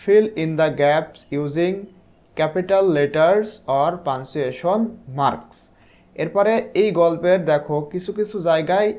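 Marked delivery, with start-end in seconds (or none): 0.1-5.6 drawn-out, careful dictation pace; slow reading aloud. Shown as a demonstration. Teacher reading the task to sixth graders, very slow. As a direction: read it word by word for beginners.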